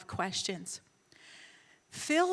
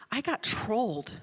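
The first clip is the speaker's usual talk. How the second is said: slow, measured disbelief; slow realization; slower than usual. Retold or imitated. Telling how it sank in, slow realization. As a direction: spell out the realization slowly. Realization repeated after long pause.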